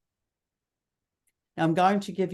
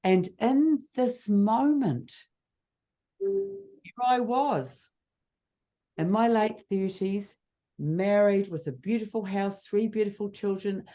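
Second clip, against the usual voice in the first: a touch of dramatic keynote delivery; keynote storytelling; 2 semitones higher than usual. Shown as a demonstration. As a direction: let each phrase land after a pause. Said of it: "share a little bit from one of my keynotes".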